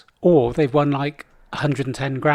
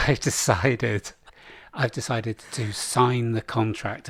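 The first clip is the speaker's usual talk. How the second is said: slow, softer, weighty announcement; mock solemn speech; 2 semitones lower, 4 dB quieter, slower than usual. Contestant announcing his signed contract, slow and mock grave. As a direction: drag out the big decision gravely. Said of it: "Martin Luther King type speech".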